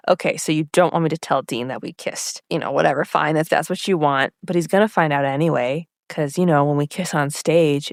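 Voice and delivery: retold cocky boy. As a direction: play him low and sure of himself. Cocky boy's taunt, retold.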